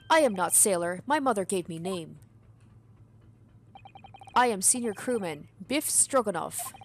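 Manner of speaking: a lightly voiced broken-English sailor; hint of a burly foreign sailor; gruff sailor. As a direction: play a proud, touchy ship's crewman. Player voices the sailor Stroganoff.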